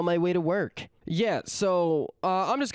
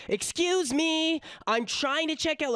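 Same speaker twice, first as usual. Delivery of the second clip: high, slow, snooty put-on voice of an entitled customer; mock Karen voice; 9 semitones higher than usual. Narrator mimics the Karen demanding service, high and mocking. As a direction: sneer it out like a rude customer.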